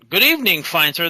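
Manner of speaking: lightly pompous role-player's hello; formal greeting. Acted. Player greets the party as a fine gentleman, mock-formal.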